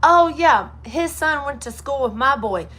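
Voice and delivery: high, loud happy exclamation; delighted florist. Retold or imitated. Florist waving off payment, a high excited gush. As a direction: gush it like a delighted shop lady. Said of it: "She said".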